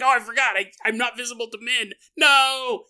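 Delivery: high, loud comic realisation ending in a cry; mock dismay. Gnome realising the boy can't see him, mock-dismayed cry.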